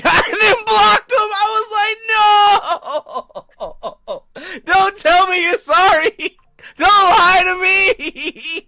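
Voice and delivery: high, slow laughing shout of disbelief; cracking up while yelling at the scammer; laughing mock yell. Retelling blocking scammer, laughing shout.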